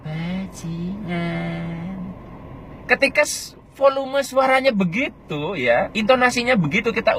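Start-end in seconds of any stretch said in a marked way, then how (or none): 0.1-1.8 very soft, very slow "Bajingan"; "Bajingan" turned right down; small and quiet. Shown as a demonstration. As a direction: shrink "Bajingan" to a soft drawn-out murmur. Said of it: "Coba kalau kita kecil".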